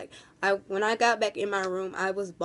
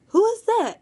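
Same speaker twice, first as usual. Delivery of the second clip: much higher, louder puzzled ask; high surprised question; 12 semitones higher, 6 dB louder than usual. Retold or imitated. Nana asking in the elevator who the girl is, high and surprised.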